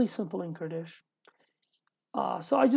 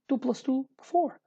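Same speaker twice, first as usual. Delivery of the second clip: "two plus two" raised, "four" higher still; with intonation; 4 semitones higher than usual. Shown as a demonstration. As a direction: jump up high on "four". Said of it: "You can say it in this way".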